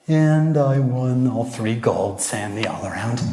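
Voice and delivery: slow, sheepish little admission. Retold or imitated. Michaela admitting her win, slowly and sheepishly. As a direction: say it slowly, a bit embarrassed. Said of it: "she's kind of sheepish".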